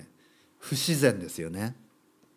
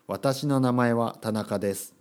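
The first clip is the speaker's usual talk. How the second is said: stiff textbook reading; slower than usual. Shown as a demonstration. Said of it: "教科書に書いてあるダイアログでは".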